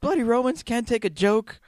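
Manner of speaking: a hint of a Python Brit; mock British grumble. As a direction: grumble in a lightly put-on English voice. Eric Idle character grumbling.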